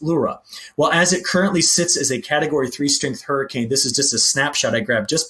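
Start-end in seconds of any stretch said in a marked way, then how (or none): 0.0-0.4 "Lura" with a long oo up front; pronunciation demo. Shown as a demonstration. Forecaster citing the pronunciation guide, "Lura" said LOO-ra. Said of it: "it's pronounced Lura".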